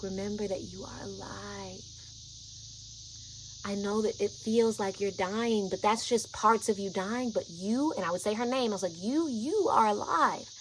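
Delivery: soothing. Retold or imitated. Calming her as she panics.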